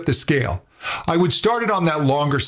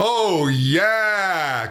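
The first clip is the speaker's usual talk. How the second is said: eager oh, enthusiastic yeah drawn out and savoured. Showing learners how to do a vocal exercise: enthusiastic. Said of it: "with some enthusiasm".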